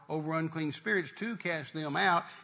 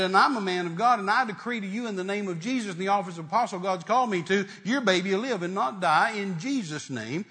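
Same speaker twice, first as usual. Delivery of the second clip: firm, emphatic pronouncement, a little raised; retold faith decree; 2 semitones higher, 3 dB louder than usual. Preacher retelling his decree to a grieving pregnant woman, firmly declaring.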